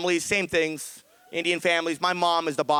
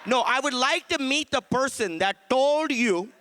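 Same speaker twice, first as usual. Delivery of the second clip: mock-polite furious mom; 6 semitones higher than usual. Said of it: "She's like".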